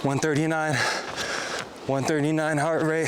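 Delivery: winded, breathing hard; gasping between numbers; heavy breathing. Real, not acted. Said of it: "Sorry for the heavy breathing".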